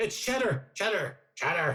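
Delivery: high, nervous, hesitant stammering voice.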